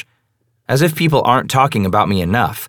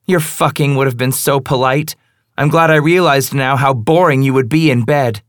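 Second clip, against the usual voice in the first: contemptuous; 5 semitones higher, 3 dB louder than usual. Acted. Female character, contemptuous.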